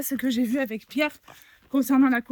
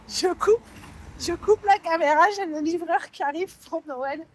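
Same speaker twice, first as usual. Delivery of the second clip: hurried; 6 semitones higher, 3 dB louder than usual. Real, not acted. Hurrying, delivery arriving.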